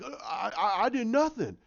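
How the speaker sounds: high, stammering scared plea; mock scared. Fan retelling a TV scene, mock scared stammer. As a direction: act out a frightened man denying it. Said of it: "he was scared".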